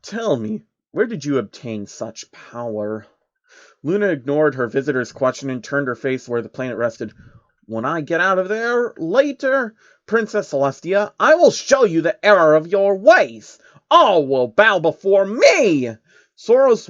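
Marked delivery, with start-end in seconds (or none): 0.0-3.1 a hint of a scheming old man; slow and measured; lightly voiced sly old man. Soros voiced. 7.7-11.1 high, menacing princess voice; a wronged princess vowing revenge; high and threatening; vengeful princess. Acted. Luna voiced turning villain. 11.2-16.0 loud, slow evil princess declaration; louder, slow and domineering; villain proclamation. Acted.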